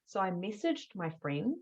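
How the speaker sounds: ordinary talk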